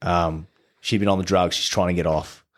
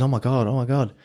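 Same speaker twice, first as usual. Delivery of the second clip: imitating her, higher and rising with delight; lightly voiced girl gushing in happy disbelief; excited squeal; 6 semitones higher than usual. Retelling the girl's reaction to his return, mock excited. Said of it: "she goes".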